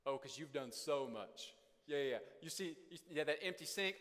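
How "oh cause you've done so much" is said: slow, dripping sarcasm; sarcastic. Pretend. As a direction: drag it out to mock the spouse. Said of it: "This goes".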